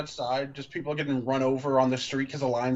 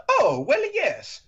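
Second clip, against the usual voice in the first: much higher, louder flustered doctor; high surprised doctor; 13 semitones higher, 6 dB louder, slower than usual. Acted. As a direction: squeak out a caught-off-guard yes. Doctor voiced in reading.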